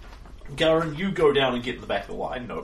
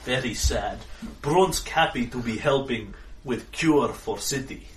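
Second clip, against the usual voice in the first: slow simple brute; slower than usual. Acted. GM voicing Brunsk.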